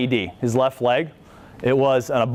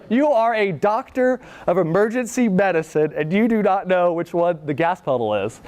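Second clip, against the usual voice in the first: raised-pitch, incredulous imitation; mock disbelief; 5 semitones higher than usual. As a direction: act out amused disbelief at a colleague. Retold disbelief amid laughter.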